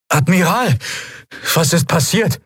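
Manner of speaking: high-pitched shocked question; startled subordinate calling to his commander; alarmed. A narrator's reading. Horrified subordinate hurries after commander.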